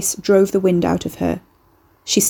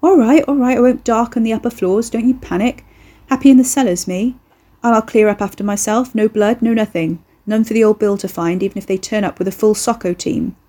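put-on cocky young bloke voice; 3 semitones higher than usual. The speaker's chatty character voice.

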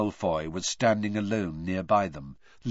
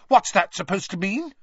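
higher, louder defiant challenge; defiantly; 8 semitones higher, 5 dB louder than usual. A narrator's reading. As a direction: push back hard at him. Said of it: "said Hermione defiantly".

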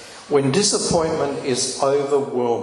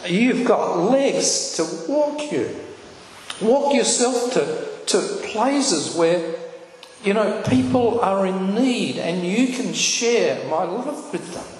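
tearful voice of God; 7 semitones higher than usual. Retold or imitated. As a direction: speak God's comfort while starting to cry. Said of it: "I just started to cry".

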